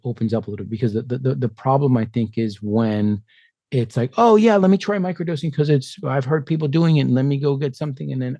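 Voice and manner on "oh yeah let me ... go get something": high, breezy imitation of a casual user; lightly mocking eager newbie; mock naive microdoser. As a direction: toss it off like a clueless beginner.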